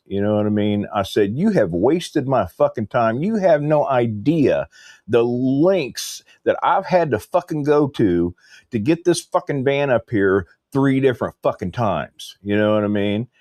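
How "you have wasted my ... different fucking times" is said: indignant, raised pitch with hard stresses; retold angry tirade. Customer retelling his complaint about wasted trips, indignant. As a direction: lay out the grievance emphatically.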